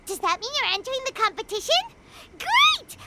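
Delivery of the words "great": loud, high burst of joy; thrilled shout of approval; excited cheer. Acted. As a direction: cheer it out, delighted. Happy he is entering.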